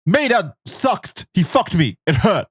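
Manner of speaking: a hint of a kid telling; little boy voice. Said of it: "the little boy".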